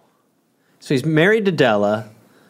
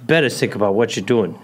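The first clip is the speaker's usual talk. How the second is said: dramatic firing scene. Pretend.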